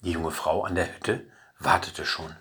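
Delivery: ordinary delivery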